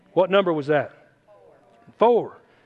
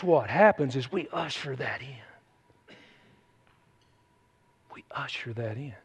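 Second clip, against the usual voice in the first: hushed emphasis; 5 semitones lower, 8 dB quieter than usual. Real, not acted. Preacher hushes after the shout.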